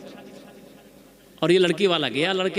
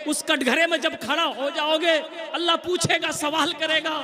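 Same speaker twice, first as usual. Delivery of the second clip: higher, forceful sermon voice; fiery preaching; 8 semitones higher than usual. Acted. Preacher warns young men against dowry, full force. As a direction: thunder it at the congregation.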